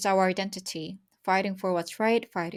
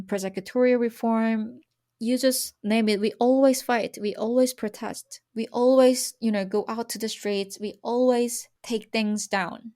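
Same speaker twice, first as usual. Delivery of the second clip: fired up; 3 semitones higher, 5 dB louder than usual. Real, not acted. Passionate rallying about protests.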